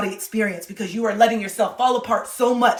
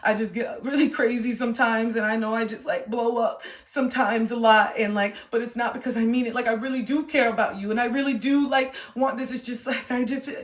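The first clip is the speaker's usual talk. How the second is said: sheepish apology; 2 semitones higher than usual. Retold or imitated. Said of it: "tail between your legs".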